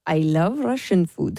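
slow, low put-on Russian accent; low, drawn-out mock Russian. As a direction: try a Chinese accent that lands nearer Russian. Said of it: "that was a bit more Russian".

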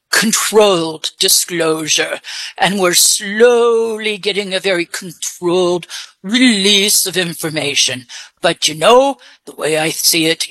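put-on disguised voice with English accent. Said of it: "Where did you get your English accent?".

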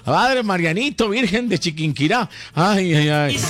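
high-pitched yelps of alarm; mock alarm. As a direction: call on the saints in playful panic. Reacts to caller's swearing.

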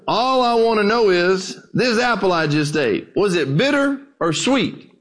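a hint of an old country preacher speaking up. Old preacher standing to question the scholar, lightly voiced.

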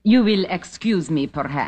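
put-on Russian accent in English; a lightly faked Russian accent. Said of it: "What happened to your Russian accent?".

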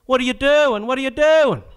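outraged squawk at the fleet; Mister Irwin ranting. Acted. Irwin berating the sailors, high indignant cry. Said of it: "A word from Mister Irwin".

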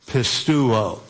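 pisteuo said as PIS-tew-oh, stress on the first syllable; Greek word. Shown as a demonstration. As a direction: pisteuo spoken slowly, ending falling. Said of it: "The word believe in Greek is this word".

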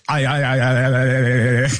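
cartoon noise. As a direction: stammer like a baffled cartoon character. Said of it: "I'm gonna make a cartoon noise here".

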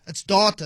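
"data" with an ah, like DAH-ta; preferred pronunciation of data. Shown as a demonstration. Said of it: "That's the only way to pronounce it".

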